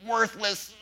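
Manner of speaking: a hint of a taunting enemy running you down; mildly voiced accuser dragging a guilty parent down; condemning accuser. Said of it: "the enemy's coming down on you hard and condemning you".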